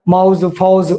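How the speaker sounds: ਮਾਊਜ਼ and ਫੌਜ਼ said with an open ਔ sound in place of ਓ; Multani vowel demo. Shown as a demonstration. Teacher showing students the Multani ਔ vowel, demonstrating. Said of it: "ਓ ਦੀ ਥਾਂ ਔ ਦੀ ਵਰਤੋਂ ਹੈ".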